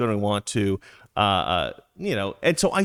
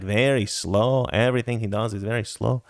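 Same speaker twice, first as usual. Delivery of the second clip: Slowpoke Rodriguez; 3 semitones lower than usual. Acted. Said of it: "you have, like, Slowpoke Rod".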